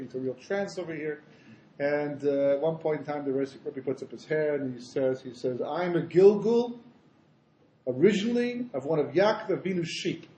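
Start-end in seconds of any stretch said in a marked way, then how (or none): 5.6-10.3 rabbi's proclamation. Acted. Rabbi revealing his past life to his Chassidim, lightly proclaimed. Rabbi's solemn claim in story.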